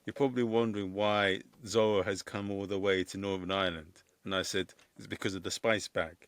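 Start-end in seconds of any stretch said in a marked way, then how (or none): 0.0-4.0 put-on lightly done Spanish accent; a hint of a Spanish accent. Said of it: "I put on a big Spanish accent". 5.0-6.2 put-on lightly done Spanish accent; a hint of a Spanish accent. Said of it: "I put on a big Spanish accent".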